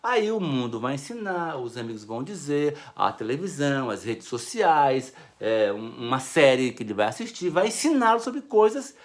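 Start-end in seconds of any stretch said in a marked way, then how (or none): none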